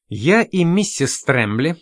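slow, level "миссис Трэмбли" with a small rise; calmly. Acted. Lawson answers Miss Spine, slow and calm. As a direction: answer evenly, unhurried. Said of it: "спокойно сказал Лоусон".

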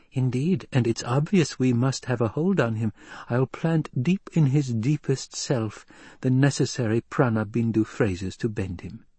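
lightly voiced, lilting noblewoman; scheming lady. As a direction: lay out the plan to your husband with poise.

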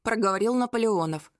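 usual speaking voice

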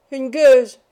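put-on old nurse screaming the insult again; full scream. A narrator's reading. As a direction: scream "une gueuse" at full force. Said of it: "hurlait Nan".

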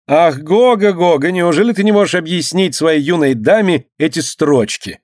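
high teasing lady's voice; playful. A narrator's reading. A mother gently teasing her son, playful. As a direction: tease him fondly. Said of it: "шутливо сказала она сыну".

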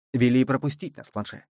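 ordinary delivery, nothing marked

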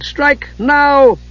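rally the fighters with a yell; urgent shouted order; shouted command. Acted. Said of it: "Palin shouted".

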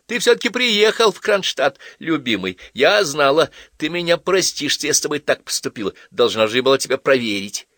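tipsy, high and chirpy; tipsy girl purring happily. A narrator's reading. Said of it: "Похоже, она была навеселе".

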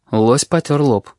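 ordinary delivery, nothing marked

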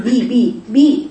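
repeated بي with a clear "ee" vowel; kasra demo. Shown as a demonstration. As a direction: isolate the syllable بي, crisp kasra. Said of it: "بقى مكسورة".

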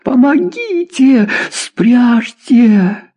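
high hysterical cry for help; panicked wailing. A narrator's reading. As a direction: beg for rescue, hysterical and drawn out. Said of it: "завопила Журавлёва".

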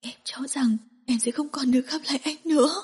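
weeping relief; crying while speaking. Acted. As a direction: speak through tears. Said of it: "Cô vừa khóc vừa nói".

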